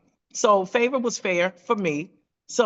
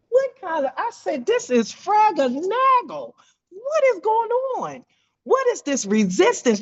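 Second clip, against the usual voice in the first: high squeaky disbelief, pitched way up; mock alarm; 10 semitones higher than usual. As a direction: play your own panic, hammed up. Retelling her own alarmed reaction.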